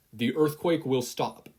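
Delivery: loud, slow, firm order; slow command. Acted. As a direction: lay down the order deliberately. Commanding the quirk.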